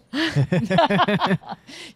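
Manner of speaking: loud, sustained burst of laughter; hearty laugh. Real, not acted. Speaker laughing at harsh criticism once received, loud and hearty. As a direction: laugh out loud at your own joke. Laughs at own ironic joke.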